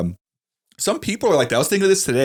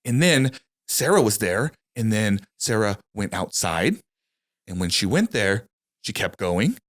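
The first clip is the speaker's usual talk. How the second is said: put-on Valley Girl storyteller; slower than usual. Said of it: "That sounds like a Valley Girl".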